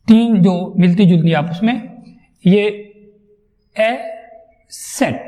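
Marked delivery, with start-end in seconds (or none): 4.7-5.2 سیٹ with a clear long vowel; vowel demo. Shown as a demonstration. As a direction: say سیٹ slowly, modelling the vowel. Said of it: "کیسے پروناؤنس کرنے". (سیٹ، لمبی آواز کے ساتھ)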